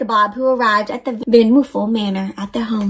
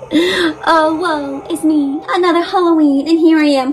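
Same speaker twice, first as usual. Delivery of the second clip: lamenting ghost; 4 semitones higher than usual. Acted.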